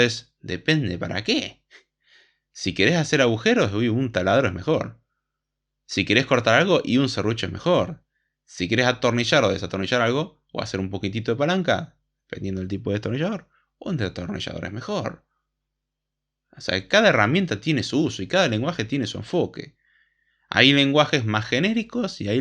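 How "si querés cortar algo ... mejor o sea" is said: ordinary talk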